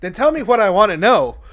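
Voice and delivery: mock Batman growl, loud and high; hammed-up Batman. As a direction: play a pushy Batman, half-joking.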